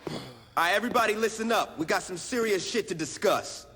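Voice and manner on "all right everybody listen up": raised voice, higher, commanding the room; calling out to the crew. Acted. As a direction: grab everyone's attention like a gang boss. Boss calls the crew to attention.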